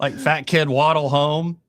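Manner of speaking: slow, giggling through the words; laughing. Real, not acted. Host laughing to co-host while describing kids waddling home.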